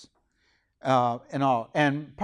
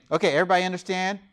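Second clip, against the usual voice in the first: teacher checking in; 4 semitones higher, much faster than usual. Acted. Acts a speaker checking with class.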